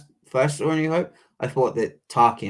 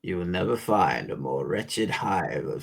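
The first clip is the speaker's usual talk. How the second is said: Obi-Wan quote; 2 semitones lower, 4 dB quieter than usual. Retold or imitated. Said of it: "not try to do the Alec Guinness accent".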